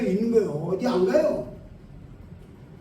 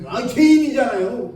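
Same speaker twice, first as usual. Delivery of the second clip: put-on higher, slow insistent old lady's answer; stubborn elder's reply; 4 semitones higher, 4 dB louder, slower than usual. Preacher voicing the elder's stubborn reply, slow and higher. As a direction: drag it out like she's stating the obvious.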